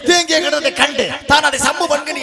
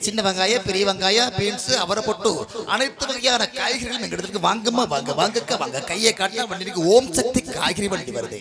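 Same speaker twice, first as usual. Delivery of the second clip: singsong street hawker; 3 semitones lower than usual. Acted. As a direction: cry your wares to the housewives. Vegetable cart hawker calls.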